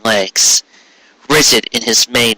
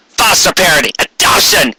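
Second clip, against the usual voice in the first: crying out; 5 semitones higher than usual. Acted. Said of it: "he cried".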